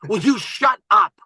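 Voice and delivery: slow, emphatic retold "shut up"; exasperated repeat. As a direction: space out each word to silence someone. Investor repeats it, more forcefully.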